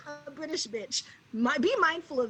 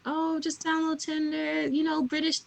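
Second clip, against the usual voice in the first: lightly put-on British accent, higher pitched; a touch of higher, mock-British voice; imitated British accent; 4 semitones higher than usual. Imitates British friend pressing her.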